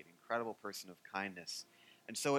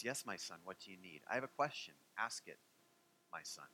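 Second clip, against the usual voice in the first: softer, unhurried exchange; gentle rabbi; 4 semitones lower, 7 dB quieter than usual. Retold or imitated. Hillel answers the third call, very softly. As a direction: let it fall quiet and patient. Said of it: "he had such a quiet way".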